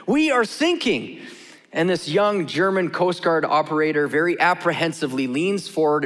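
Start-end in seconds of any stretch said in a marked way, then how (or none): 0.1-1.2 higher-pitched mayday call, drawn out on sinking; urgent radio plea for help, acted out; distress call. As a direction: act a sinking ship's mayday. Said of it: "you hear this voice saying".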